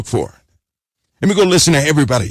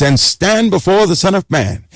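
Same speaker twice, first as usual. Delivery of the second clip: "before" stressed, higher and falling; emphasized; 5 semitones higher than usual. Shown as a demonstration. Preacher stressing the verse for the congregation, rising emphasis. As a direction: hit "before" hard. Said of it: "let me emphasize something".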